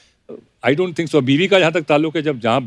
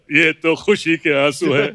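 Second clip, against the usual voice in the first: tearful Pran; slower than usual. Retold or imitated. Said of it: "प्राण साहब रो रहे हैं".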